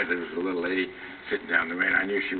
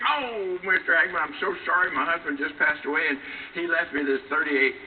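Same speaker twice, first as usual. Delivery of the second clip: lightly voiced old lady, higher, gushing sorry; a hint of a flustered little old widow apologizing; apologetic old lady; 6 semitones higher than usual. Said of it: "And she said".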